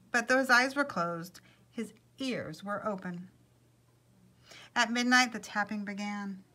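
animated, projected storyteller voice; lively picture-book reading; story narration. A narrator's reading. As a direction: read it aloud to an audience, lifting key phrases. Story read to listeners.

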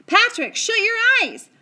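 loud, high warning cry; boy shouting a warning to his friend; urgent shout. A narrator's reading. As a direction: yell it before the shot. Omri yells a warning.

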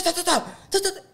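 imitated turbulence. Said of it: "eso hizo".

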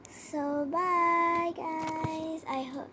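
upbeat youtuber sign-off; vlog outro. Acted. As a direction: wrap up the video for your viewers.

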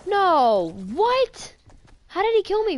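furious high yell; raging gamer. Real, not acted. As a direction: shout it like you just got killed. Killed in game, yelling.

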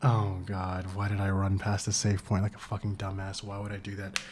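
low, quiet, defeated groan; sunken, miserable murmur; dejected self-reproach. Real, not acted. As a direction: berate yourself under your breath. Berating himself for not saving.

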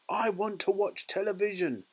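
high, tiny-voiced demand; squeaky tantrum. A narrator's reading. Tiny boy throws a tantrum for television, squeaking. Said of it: "He squeaked".

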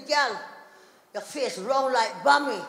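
slow Jamaican husband's remark; Jamaican accent. Retold or imitated. Husband looking at wife's face, Jamaican accent. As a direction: say it with a Jamaican lilt. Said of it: "my husband's from Jamaica".

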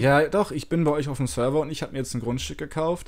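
digitally distorted voice; voice changer. Real, not acted. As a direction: speak through a voice changer. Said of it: "ich mach mal den Stimmverzerrer kurz aus".

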